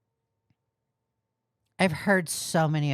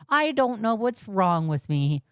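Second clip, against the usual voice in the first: higher, mocking whine; mock whiny excuse; 5 semitones higher than usual. Streamer mimicking a fake apology, whiny. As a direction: parody the excuse. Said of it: "I'm so tired of hearing".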